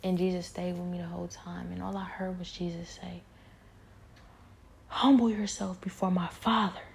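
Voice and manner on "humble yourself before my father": retold scream. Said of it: "He screamed it".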